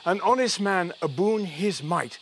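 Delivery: put-on slow, measured stab at a Scottish accent; attempted Scottish accent. Man reciting a Burns verse his friend taught him, attempted Scottish accent. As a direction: recite slowly in a light imitation Scottish lilt. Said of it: "her Scottish accent, but it went, it went something like this".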